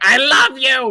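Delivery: very high, very loud, shrill doting shriek. Describing how she praises the dogs too loud, imitating a scream. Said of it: "She screams at the dogs like".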